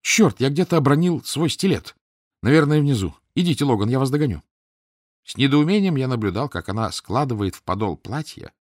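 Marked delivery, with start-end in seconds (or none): 0.0-4.4 exclaiming. Acted. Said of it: "Летиция вдруг воскликнула".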